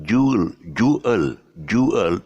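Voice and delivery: "jewel" glided as JOO-ul, without a W. Shown as a demonstration. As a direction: slide through "jewel" with no W. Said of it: "without the W".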